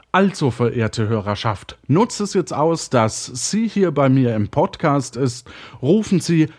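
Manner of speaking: radio host voice. Acted. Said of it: "drei, zwei, eins".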